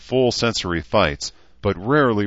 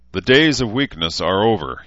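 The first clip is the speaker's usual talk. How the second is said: rousing speech; 3 semitones higher, 5 dB louder than usual. A narrator's reading. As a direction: declare it like a leader to followers. Leader's rousing speech to his followers.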